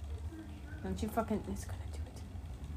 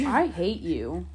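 mock hatred; 3 semitones lower, 5 dB louder, slower than usual.

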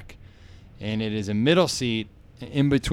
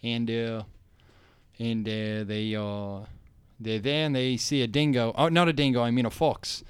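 halting, softer Australian storyteller; Australian accent; 3 dB quieter than usual. Retold or imitated. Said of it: "the Australian guy was talking".

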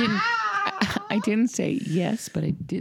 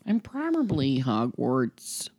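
slow answer; 4 semitones lower, slower than usual. Real, not acted. Said wrong-footed, then mimicked by friend.

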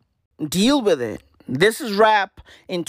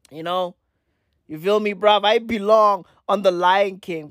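ordinary talk, nothing marked

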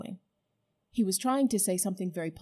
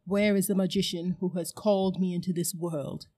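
commanding queen; 4 dB louder than usual. Acted. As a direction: let the words fill the room with menace. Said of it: "something in her voice that made the whole room quiver".

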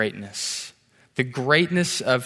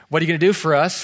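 mock British accent, lightly attempted; bad British accent; 2 semitones higher, 4 dB louder, much faster than usual. Judge asks the contestant what he will do, bad British accent. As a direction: imitate a Briton, not very well. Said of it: "That's my bad British accent".

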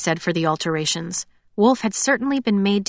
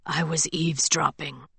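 a touch of quiet, lower guilty admission; guilty confession; 3 semitones lower, 6 dB quieter than usual. Acted. Wolf admitting to Scarlet he listened, quiet. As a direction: own up sheepishly. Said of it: "he confessed".

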